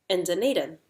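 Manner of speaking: DUNEDIN with a small lift, then falling; answer, closing downward on "Dunedin"; responding to a question. Shown as a demonstration. Teacher answers the model question, DUNEDIN falling. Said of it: "responding to a question".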